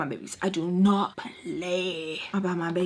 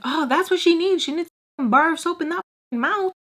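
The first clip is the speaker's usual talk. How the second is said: high, fast, fake-sweet sass; mock sweetness over an insult; sarcastic sweet; 7 semitones higher, 3 dB louder, faster than usual. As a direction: sneer it in a sugary voice.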